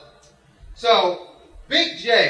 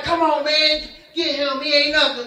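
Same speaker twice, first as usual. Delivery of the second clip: higher-pitched, exasperated complaint; mad urging; 6 semitones higher than usual. Retold or imitated. Frustrated player to his basketball teammates, retold as mad urging. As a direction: retell being fed up with teammates. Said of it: "I'm getting mad".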